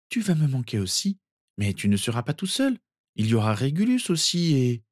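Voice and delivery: lightly voiced girl comforting a child; consoling. Narcissa consoling cousin before leaving, tender.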